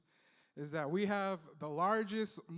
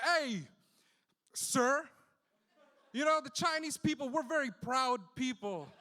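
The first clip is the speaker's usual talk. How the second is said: hammed-up outrage at the driver; mock indignant rant. Comic as himself scolding the taxi driver in a raised, mock-indignant voice. Imagined angry retort to driver.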